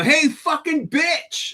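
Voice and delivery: high, drawn-out angry yell; retold scream. Driver yells after woman walking off, retold angry scream. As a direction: holler it after someone, stretching the words. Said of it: "I start screaming at her".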